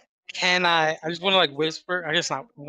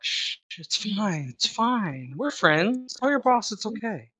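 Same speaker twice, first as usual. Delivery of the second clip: slow, hushed coaxing, drifting a little higher; soothing hush; 4 semitones higher, slower than usual. Acted. Player charming the grappled henchman, soothingly hushed. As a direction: lull him into compliance. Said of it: "I'm just gonna whisper in his ear".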